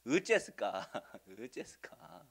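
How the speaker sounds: a light Jeolla-dialect exclamation, drawn out on the repeat. Shown as a demonstration. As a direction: say it the Jeolla way with a laugh. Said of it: "전라도 말로 뭐예요?".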